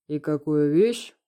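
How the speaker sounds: unruffled calm. Acted. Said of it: "невозмутимо пуская кольца дыма".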